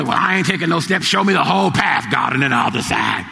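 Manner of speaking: lightly voiced doubter, a touch of mock defiance; mock a stubborn believer demanding proof; a hint of a defiant skeptic. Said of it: "Some people say".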